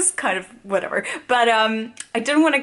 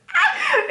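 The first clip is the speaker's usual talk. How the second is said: high excited giggle; 3 dB louder than usual. Real, not acted. Laugh between takes.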